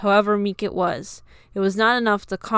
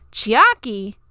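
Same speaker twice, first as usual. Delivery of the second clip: surprised cry; 2 semitones higher, 7 dB louder than usual. A narrator's reading. Shocked cry on seeing friend.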